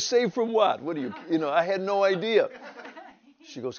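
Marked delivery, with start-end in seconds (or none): 0.0-1.1 high, loud confused retort; baffled. Retold or imitated. Husband answering his wife's sudden demand, baffled. 1.3-2.5 high, loud laughing aside. Real, not acted. Husband telling the church his story, laughing.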